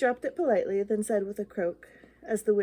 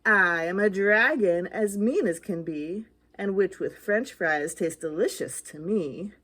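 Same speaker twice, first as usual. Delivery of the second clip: loud, menacing dragon voice; dragon roar; 3 semitones lower, 4 dB louder than usual. Acted. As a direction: growl it like a hungry dragon. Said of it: "a roar that was scary and loud".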